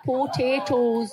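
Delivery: Potatoes said slowly as po-tay-toes. Shown as a demonstration. Host trying the hobbit's word on request. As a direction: stretch Potatoes out carefully. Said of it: "Can you say potatoes?".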